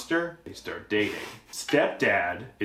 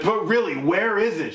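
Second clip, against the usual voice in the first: put-on puzzled young woman; 8 semitones higher than usual. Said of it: "She's like".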